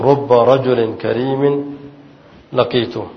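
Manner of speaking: slow, deliberate dictation of the correct phrase; teacher gives students the right wording, spoken slowly and carefully; correct form, said slowly. Shown as a demonstration. Slow careful teacher dictation. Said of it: "تقول".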